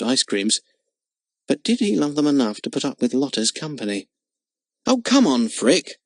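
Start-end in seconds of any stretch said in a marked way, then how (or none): 4.9-6.0 impatient. Acted. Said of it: "said Jimmy impatiently".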